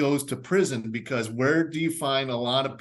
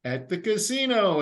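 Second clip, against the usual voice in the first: punchline; 8 semitones higher than usual. Real, not acted. Punchline answer.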